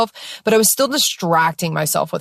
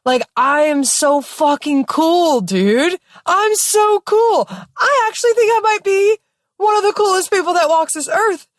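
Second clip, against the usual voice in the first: giddy laughing; 9 semitones higher than usual. Retold or imitated. Laughing at herself in the tub, giddy and high. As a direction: gush it out high while cracking up. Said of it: "I'm laughing so hard in this tub".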